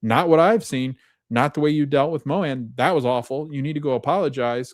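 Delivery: a doctor telling a colleague off; scolding. Retold or imitated. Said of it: "And she goes".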